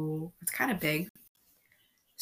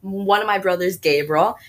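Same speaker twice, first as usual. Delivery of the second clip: excited announcement; 3 semitones higher, 11 dB louder than usual. Real, not acted. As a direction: announce it like a TV host. Surprise guest announcement.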